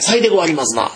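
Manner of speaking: put-on old Semba dialect. Shown as a demonstration. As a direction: lightly put on old Osaka Semba speech. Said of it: "船場の言葉って". (船場言葉の実演)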